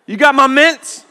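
put-on high, loud kid greeting with a laugh; eager kid. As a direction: pounce on dad demanding candy. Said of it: "No, "Hey".

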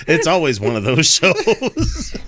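quoting the Shade through laughter, slow; laughing quote. Retold or imitated. Host laughing as he quotes a viewer's comment. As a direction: read out a chat line while laughing. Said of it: "The Shade says".

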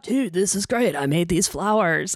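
lightly voiced dopey himbo; a touch of a dumb friendly hunk; dopey macho hunk. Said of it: "that's my himbo voice".

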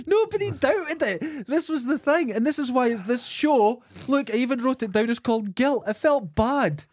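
high-pitched, worked-up confession; real high-pitched incredulity; incredulous. Real, not acted. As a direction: protest in disbelief, voice pitched right up. Incredulous confession about his tall tale.

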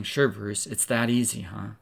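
mock-sarcastic jab, loud; a listener's loud sneering retort; sarcastic doubter. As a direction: toss it back scornfully, then drop on huh. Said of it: "You may be saying".

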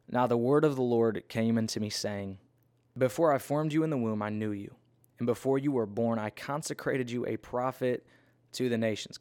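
measured, emphatic Bible reading; scripture reading. Acted. Reads scripture aloud.

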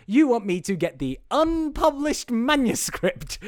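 slow build to a loud, high exclamation; incredulous outburst. Acted. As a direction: spell out the absurd demand, climbing in disbelief. Acts out assistant's incredulous outburst.

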